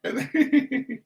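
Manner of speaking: corpsing mid-sentence, unable to go on; breaking into laughter. Real, not acted. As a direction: voice jumps up as the giggle takes over. Reader cracks up mid-reading.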